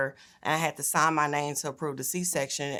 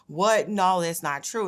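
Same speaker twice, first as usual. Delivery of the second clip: shocked disbelief; 4 semitones higher, 5 dB louder, slower than usual. Retold or imitated. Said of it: "And I'm starting to freak out".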